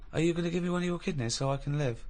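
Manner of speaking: lightly voiced pleading kid; pleading child voice. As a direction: beg softly like a sick child. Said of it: "I'm a little kid who wants a kidney".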